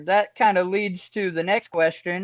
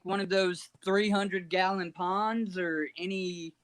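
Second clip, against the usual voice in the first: faint phone audio; 8 dB quieter than usual. Real, not acted. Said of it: "You're a little low".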